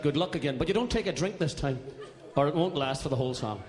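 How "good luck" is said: brief rising cue; demonstrated shout. Shown as a demonstration. Singer showing where you shout, light rising call. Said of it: "right there, you shout".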